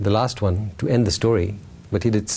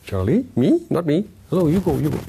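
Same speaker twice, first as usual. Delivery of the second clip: lightly voiced, a touch higher; nervous crowd refusal; 4 semitones higher than usual. Crowd refusing to ride on Charlie's back, mild nervous voices.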